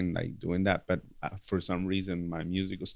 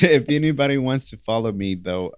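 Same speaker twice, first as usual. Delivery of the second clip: laughing; 6 semitones higher, 9 dB louder than usual. Real, not acted. Laughs while plugging Facebook.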